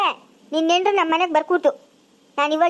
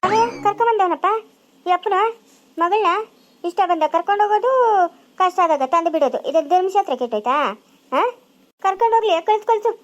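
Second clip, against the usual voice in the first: angry rant; 3 semitones higher than usual. Acted. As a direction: tear into the bride's father, outraged. Mother-in-law furious about the daughter-in-law. (ಸಿಟ್ಟಿನಿಂದ ಜೋರಾಗಿ ಬೈಯುವುದು)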